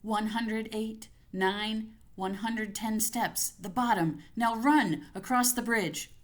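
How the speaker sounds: frightened counting. Acted. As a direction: count each step to keep the panic down. Counting steps while fleeing in terror.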